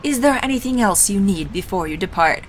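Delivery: hammy stage actor voice; grand, theatrical wizard; deep theatrical voice. Acted. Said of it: "in a deep and theatrical voice".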